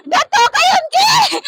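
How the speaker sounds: high, slow anguished wail; grief-stricken cry. Real, not acted. Grieving relative announces brother's death. (दुख में चीखकर रोते हुए)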